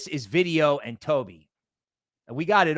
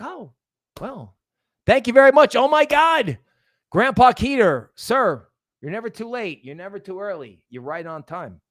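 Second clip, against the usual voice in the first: high, hammed-up delighted voice; mock grateful buyer; 3 semitones higher, 5 dB louder than usual. Buyer thanking the market for a dip, mock delight. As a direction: play a thrilled dip buyer. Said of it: "It's like".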